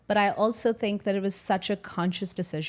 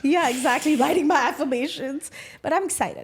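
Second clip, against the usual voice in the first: put-on light Indian accent, a bit higher; a touch of Indian accent; 7 semitones higher, 3 dB louder than usual. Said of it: "When I'm really passionate about something".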